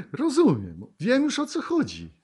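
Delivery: high, loud burst of sudden understanding; the student's joyful aha; excited realisation. Acted. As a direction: gasp and light up as it finally clicks. Student suddenly grasps the lesson.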